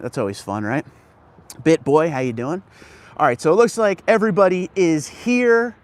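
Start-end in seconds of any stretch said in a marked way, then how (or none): none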